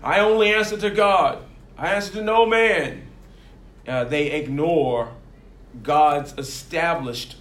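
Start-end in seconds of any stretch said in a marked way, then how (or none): 0.0-3.0 louder, self-righteous church rebel; mock a smug churchgoer who answers to no one; proud Jezebel spirit. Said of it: "The Jezebel spirit inside of a church would say".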